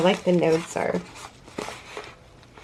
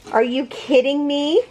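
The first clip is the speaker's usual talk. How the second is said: real astonished question, pitched up; amazed disbelief; 5 semitones higher than usual. Real, not acted. Crafter to a viewer who sent several squares, amazed disbelief. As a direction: ask it in happy disbelief, rising at the end.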